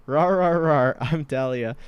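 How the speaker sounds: loud, slow playful rawr; Dahlia roar. Acted. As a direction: roar it out like a mascot. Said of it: "Say it with me".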